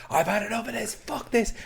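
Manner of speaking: imitating an exasperated woman quitting; fed-up outburst. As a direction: throw it away in a huffy, high voice. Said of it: "she's like".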